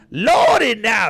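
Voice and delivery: loud, slow, high mocking shout of Lordy now; mocking Kamala. Mocking Kamala pandering to a crowd, slow loud high shout. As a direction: ham up a politician playing to the crowd, drawn out and loud. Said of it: "there's Kamala. It's like".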